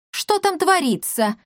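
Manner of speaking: high startled asking; alarmed question. Acted. Barianna hearing shouts from the street, alarmed. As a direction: crane to see, alarmed.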